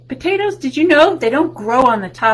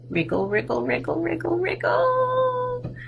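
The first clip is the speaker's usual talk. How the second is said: climbing from normal to far higher; rising wriggle; 10 semitones higher, 4 dB quieter than usual. Shown as a demonstration. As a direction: let each wriggle squeak up like a worm. Worm sound, rising.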